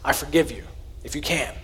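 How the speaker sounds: quiet, gentle "I forgive you"; soft demo forgiveness. Shown as a demonstration. Pastor shows kids how to answer an apology, softly. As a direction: model the reply softly. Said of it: "the offended party's response is".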